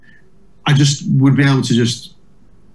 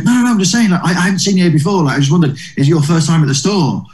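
a touch higher, quick friendly reassurance; lightly voiced Eddie; 4 semitones higher, faster than usual. Comedian quoting Eddie backstage, a lightly higher friendly voice. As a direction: lift the voice a little, hurried and kind. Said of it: "He goes".

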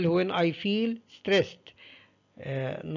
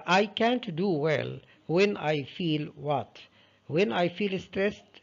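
slow dictation; 2 semitones higher, much slower than usual. Shown as a demonstration. Teacher reads question slowly.

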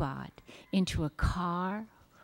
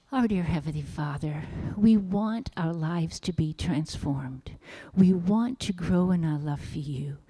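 even, unhurried-sounding public prayer. Real, not acted. Leads a closing prayer.

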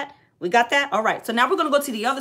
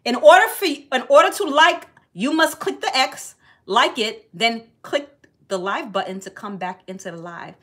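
loud announcement; 4 dB louder than usual. Real, not acted. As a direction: call it out to the whole room. Announcing the comment's instructions.

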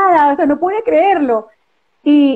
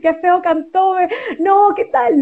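imagined critics; 5 semitones higher, slower than usual. Retold or imitated. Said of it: "me van a decir".

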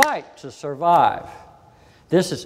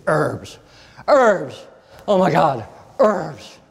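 scoffing disbelief; much slower than usual. Retold or imitated. Doctor scoffing at herbs.

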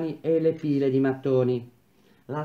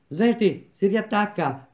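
raised, higher urgent call to hurry; shout; 5 semitones higher, slower than usual. A narrator's reading. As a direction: bark the order across the worksite. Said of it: "gridò Nardini".

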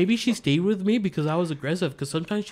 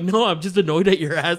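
retold annoyed retort; 3 semitones higher, 7 dB louder than usual. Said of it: "I'm like".

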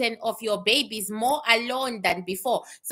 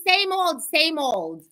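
sweetly; 4 semitones higher, 3 dB louder, slower than usual. Pretend. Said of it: "She says very sweetly".

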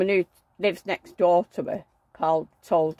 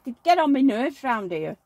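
angry rant; 5 semitones higher than usual. Retold or imitated. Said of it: "You sound like a fishwife".

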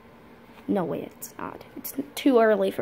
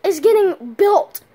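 nervous; 3 dB louder than usual. Acted. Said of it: "You sound nervous".

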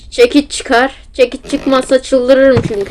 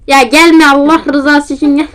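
panicked plea; 3 semitones higher than usual. Real, not acted. Granny chasing him.

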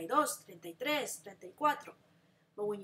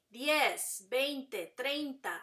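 slow, clear teacher drill; slow counting drill for repeating; repeat after me; slower than usual. Shown as a demonstration. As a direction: pause after each number for echoing. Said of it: "repeat after me".

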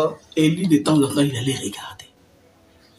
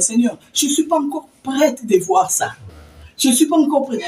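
higher, louder panicked prayer; frightened plea; 11 semitones higher, 5 dB louder than usual. Retold or imitated. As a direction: beg the Lord in rising panic. Supplie le Seigneur, effrayée. (supplication affolée, plus aiguë et plus forte)

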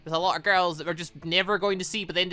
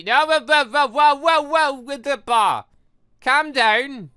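loud, high panicked shouting; panicked whoa; 9 semitones higher, 9 dB louder, slower than usual. Real, not acted. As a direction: yell at the bar to slow down. Panicking at fast minigame bar.

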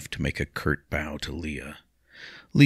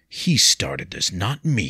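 slow, stiffly defensive; clipped denial, slowly; 3 semitones higher, slower than usual. Acted. William defends himself to Leah, stiffly and slowly. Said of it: "he said stiffly".

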